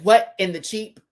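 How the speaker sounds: high, loud baffled squawk breaking into cheeps; comic high-pitched bird cheeps; mock bird chirping. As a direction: chirp like a bird, laughing through it. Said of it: "Just a bird falling out of a tree".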